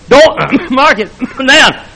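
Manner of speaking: "mark" punched hard and drawn out, slow and loud; preacher repeats it, hammering "mark" home slowly. Shown as a demonstration. Preacher hammering "mark" at his congregation.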